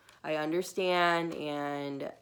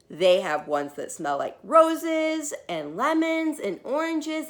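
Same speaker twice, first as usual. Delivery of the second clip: put-on high, loud, eager begging kid; an excited little girl begging her mom; pleading child; 5 semitones higher, 6 dB louder than usual. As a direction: wheedle hard for the new markers. Bridget begs for smelly markers.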